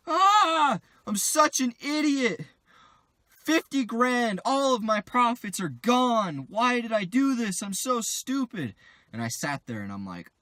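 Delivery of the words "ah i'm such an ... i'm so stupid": higher, louder, slow mock wailing; imitating crying friend. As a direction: wail the lost profits like the friend downstairs. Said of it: "I just hear crying from downstairs".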